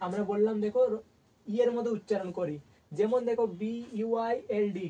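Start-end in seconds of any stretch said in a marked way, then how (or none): 3.6-4.9 বিইউআইএলডি spelled slowly, letter by letter; slow spelling for the students. Shown as a demonstration. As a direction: spell it out at dictation pace. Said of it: "কি বলি আমরা?".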